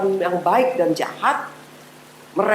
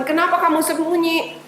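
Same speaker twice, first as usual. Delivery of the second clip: God asking; 8 semitones higher than usual. Acted. Tuhan bertanya kepada Adam.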